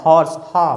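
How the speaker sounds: "हॉर्स" with the H spoken, then "हा" alone; sounded H. Shown as a demonstration. Teacher showing students that horse keeps its H, sounded-H demonstration. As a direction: say "हॉर्स", then isolate its opening "हा". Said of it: "एच यहाँ पर प्रोनाउंसिएट हो रहा है".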